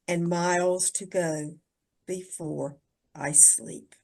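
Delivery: soft, low, almost whispered close; hushed poem ending. Acted. Closing repeat of the poem.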